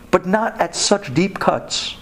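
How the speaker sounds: ordinary delivery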